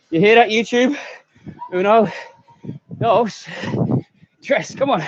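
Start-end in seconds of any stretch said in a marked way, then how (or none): 1.7-4.7 bad Spanish accent. Shown as a demonstration. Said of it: "worst accent any Spanish speakers".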